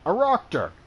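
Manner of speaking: the pun pops out high and loud with a laugh; laughing at own pun. Acted. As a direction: crack up at your own wordplay. Doctor cracks his own joke.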